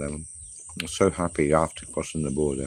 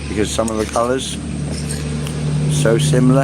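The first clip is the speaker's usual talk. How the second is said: laughing; 8 semitones higher, 9 dB louder, slower than usual. Real, not acted. Laughing at own advice.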